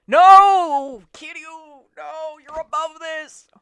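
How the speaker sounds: high pleading shout. Real, not acted. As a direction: yell it like begging a friend to stop. Yelling at Kiryu on screen.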